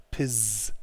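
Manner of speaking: first syllable of pos- alone, ending in a Z; pos- cut off on a voiced z; buzzed Z in pos-. Shown as a demonstration. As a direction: model pos- with a held buzzing z. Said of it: "it's a Z sound at the end".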